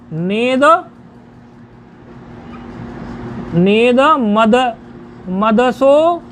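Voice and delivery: "नेद", "नेद मद", "मदसो" built up slowly piece by piece; छंदवत उच्चारण. Shown as a demonstration. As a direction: drill "नेद मद" with न and इदम fused, long vowels. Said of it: "क्या है उच्चारण?". (धीरे-धीरे टुकड़ों में सिखाते हुए)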